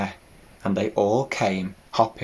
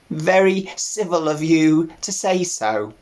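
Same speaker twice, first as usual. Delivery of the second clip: put-on old ewe voice; 6 semitones higher than usual.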